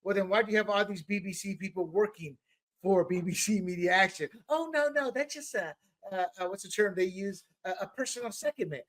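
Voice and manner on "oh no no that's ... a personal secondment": hammed-up evasive voice; mocking excuse. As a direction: play dumb like a caught official.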